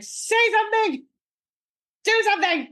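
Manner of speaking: high, pleading plea; pleading wife. Retold or imitated. Wife pleading with her frozen husband, high and desperate. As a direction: beg him to react.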